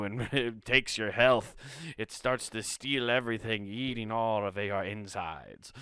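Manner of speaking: comic Scottish troll-tale voice; lightly hammed-up Scot, slowing to finish; mock Scottish accent. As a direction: carry on the put-on Scottish warning. Continues the joking Scottish troll voice.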